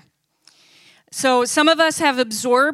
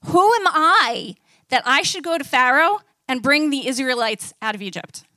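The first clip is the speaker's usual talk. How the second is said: fearful Moses; 3 semitones higher than usual. Acted. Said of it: "Moses says in Exodus three".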